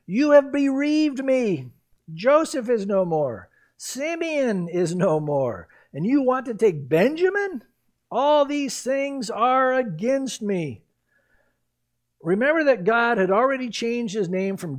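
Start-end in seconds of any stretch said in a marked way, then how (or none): 0.0-10.8 grieving father. Acted. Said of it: "Jacob their father said to them".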